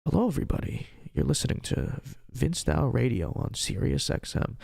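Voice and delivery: lightly voiced radio host greeting; public radio voice. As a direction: open the show in a mild public radio manner. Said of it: "the public radio voice".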